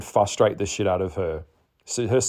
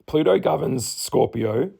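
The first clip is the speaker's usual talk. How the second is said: husky with a frog in throat; 5 semitones higher than usual. Real, not acted. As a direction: talk through a frog in throat. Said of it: "Frog in my voice".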